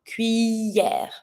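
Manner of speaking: cuillère with ll pronounced as y; y sound. Shown as a demonstration. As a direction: say a y glide inside cuillère. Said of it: "same, y sound".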